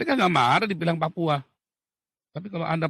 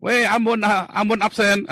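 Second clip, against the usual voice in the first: playful roll call; 4 semitones higher, 3 dB louder than usual. Retold or imitated. Calling out friend by ethnicity.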